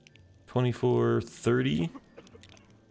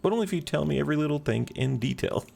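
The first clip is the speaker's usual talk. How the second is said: higher, quick sarcastic reply; 7 semitones higher, 4 dB louder, much faster than usual. Acted. Keeper answers woman's plea for help, lightly sarcastic. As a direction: lay on mock interest, quickly. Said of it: "That's a little sarcastic".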